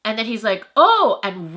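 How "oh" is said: high, loud mock-startled "oh"; imitated backpedaling. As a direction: imitate someone caught out, pitched way up. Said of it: "you should have seen his tone of voice".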